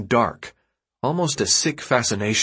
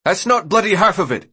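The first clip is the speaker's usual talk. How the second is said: high, louder; raised voice; 9 semitones higher, 5 dB louder than usual. A narrator's reading. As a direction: speak over the crowd. Newt shushing crowd.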